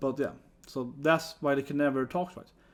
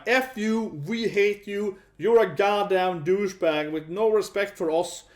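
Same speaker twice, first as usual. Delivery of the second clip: mock angry company; 2 semitones higher, slower than usual. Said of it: "Toei is like".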